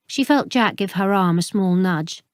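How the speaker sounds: ordinary delivery, nothing marked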